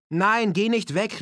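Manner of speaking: high, loud, drawn-out plea; calling out. A narrator's reading. Woman begging Keith not to leave, calling out. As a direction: call after him pleadingly, stretching the words. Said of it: "rief sie".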